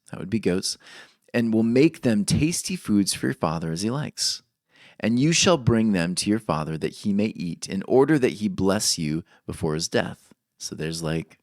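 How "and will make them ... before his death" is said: measured, solemn reading of scripture. Acted. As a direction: read the verses with weight. Reads Genesis aloud.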